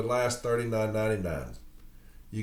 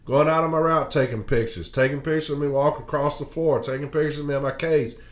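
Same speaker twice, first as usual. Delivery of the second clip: angry rant; 3 semitones higher than usual. Real, not acted. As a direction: vent hard about being photographed. Angry rant about management pictures.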